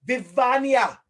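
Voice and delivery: "Vivania" as vi-VAH-nya, said out clearly; corrected name pronunciation. Real, not acted. Teacher echoing a student's correction, "Vivania" as vi-VAH-nya. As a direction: repeat "Vivania" carefully with a -nya ending. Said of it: "get it right".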